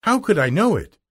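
put-on high-pitched girlish plea; Dorothy protesting. A narrator's reading. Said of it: "answered Dorothy".

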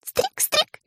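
tiny high chirp; dragonfly song. A narrator's reading. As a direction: sing it like a dragonfly. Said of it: "пели стрекозы".

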